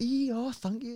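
overjoyed, delighted, very high-pitched voice. Retelling how a pleased woman thanked the speaker: imitating someone happy. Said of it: "And she was so happy".

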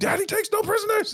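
play-acted, very high, triumphant, gloating screaming. Recounting beating a team in a game with his son: retelling a scream. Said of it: "i'm like screaming".

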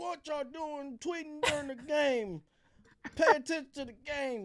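put-on very high, slow, drawn-out elderly-man voice. Recalling reacting to players tweeting during the game, old man voice. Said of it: "I was going to sound like an old man".

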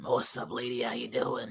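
hushed, low, raspy longtime-smoker voice, very quiet. Playing a random guy greeting the bartender, sounding like a longtime smoker. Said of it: "Why you sound like you've been smoking for like 30 years?".

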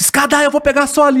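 acted, very high-pitched yelled shout. Retelling a volleyball match, imitating Giba shouting. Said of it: "o Giba gritava, ele falava assim".

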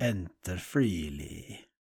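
put-on accent drifting Italian. Repeating a loved vampire quote when asked to do it again, in an Italian-sounding accent. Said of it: "Started to become like Italian".

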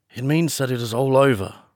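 plain

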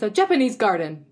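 precise, enunciated cartoon cadence in exact rhythm. Quoting someone's line, the speaker copies his specific rhythm. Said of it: "he speaks with such a like Specific rhythm".

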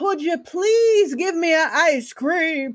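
put-on high, begging, pleading childlike voice. Acting out a child begging a father for ice cream: acting out a child begging.

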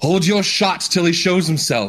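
high, drawn-out calling yell. Voicing a character who calls up to Aaron: yelling up to someone. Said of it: "he's gonna yell up to Aaron".

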